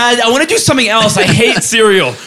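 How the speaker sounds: mock complaining daughter. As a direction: plead with dad, playing the fed-up daughter. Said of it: "She's just like".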